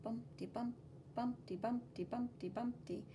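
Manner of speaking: bouncy bumpty bumpty rhythm; sounding out bumpy lines. Shown as a demonstration. Teacher sounding out bumpy lines, bouncy. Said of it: "these bumpy lines".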